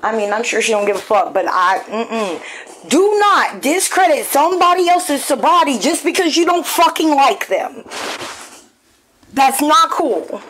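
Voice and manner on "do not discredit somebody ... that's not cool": heated scolding. Real, not acted. Scolding someone over sobriety.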